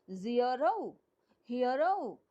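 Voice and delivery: ज़ीरो and हीरो each in two syllables; two-part pronunciation. Shown as a demonstration. Teacher reminding students of two-part words, said syllable by syllable. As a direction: break ज़ीरो and हीरो into two audible parts. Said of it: "दो part में नहीं करे".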